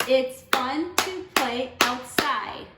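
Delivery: slow, syllables spaced for clapping; teacher counting syllables aloud; clapped out syllable by syllable. Shown as a demonstration. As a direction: count each beat as you say it. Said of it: "Let's count the second line".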